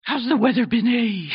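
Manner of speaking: a hint of a Canadian accent, lightly done. Shown as a demonstration. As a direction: tag on a playful Canadian A. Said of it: "go ahead, say it".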